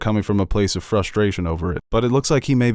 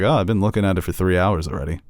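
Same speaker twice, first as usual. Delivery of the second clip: smug. Retold or imitated. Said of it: "Just so cocky".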